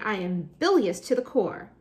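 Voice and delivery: mildly hammed-up indignant fury; exploding. Teacher acts an enraged girl, mild mock fury. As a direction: keep the acted outburst going, a touch contained. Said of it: "she exploded".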